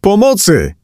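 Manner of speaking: very high, urgent cry; high-pitched alarmed call; cry for help. A narrator's reading. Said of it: "krzyknęła".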